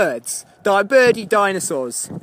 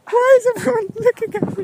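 mock cyclist; 10 semitones higher than usual. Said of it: "Just like".

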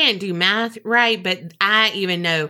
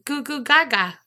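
higher-pitched mock baby babble; 5 semitones higher than usual. Cohost role-playing the newborn in the rebirth, mock baby voice. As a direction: play at being a baby with cooing nonsense. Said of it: "if we're role-playing here".

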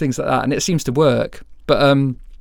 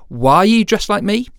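mock baffled wife; 8 semitones higher than usual. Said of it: "come home and say to her husband".

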